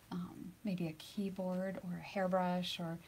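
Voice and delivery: slow ASMR whisper. Acted. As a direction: breathe the words slowly. Listing ASMR triggers in whisper.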